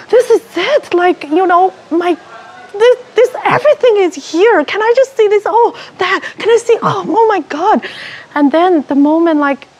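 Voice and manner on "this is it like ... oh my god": awestruck. Retold or imitated. Awestruck during vision.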